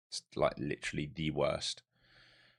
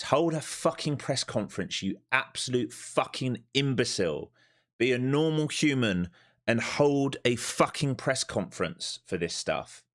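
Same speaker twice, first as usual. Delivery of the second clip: higher and louder, spitting out each word in real anger; furious rant; 7 semitones higher, 3 dB louder than usual. Real, not acted. Trader ranting at Donald over a market-moving tweet, furious shout. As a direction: yell at him like he's ruined your day.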